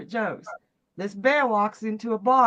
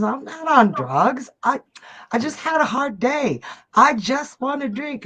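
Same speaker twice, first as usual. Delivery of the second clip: louder, emphatic protest; protesting bear; 5 semitones higher, 4 dB louder than usual. Acted. Bear denying drugs to the bartender, protesting. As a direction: plead your case with force.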